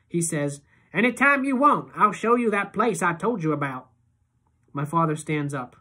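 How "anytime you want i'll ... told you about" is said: high, loud eager offer; keen to please; Iggy offering to show the place. A narrator's reading.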